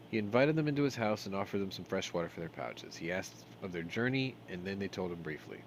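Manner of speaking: measured storybook reading; game text read as a story; story narration. A narrator's reading. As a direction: read the tale aloud, scene by scene.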